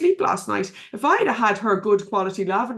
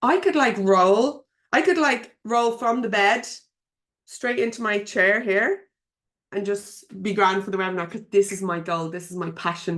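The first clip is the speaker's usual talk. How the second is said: determined, fired-up reply. Retold or imitated. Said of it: "I was like".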